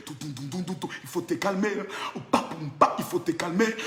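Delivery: low, soft rhythmic patter; hushed refrain. Acted. Calming the rival with a refrain, low and soft. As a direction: murmur the beat between soft warnings. Soft scatting between warnings.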